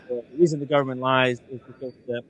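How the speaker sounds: choppy breaking audio; voice cutting out. Real, not acted. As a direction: signal dropping in and out. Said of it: "Is Tim's voice cutting in and out".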